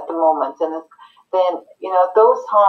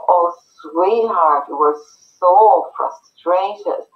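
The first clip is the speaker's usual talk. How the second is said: soothing parent. Shown as a demonstration. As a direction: draw out sweetheart gently, like calming a small child. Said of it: "what they need is for you to go".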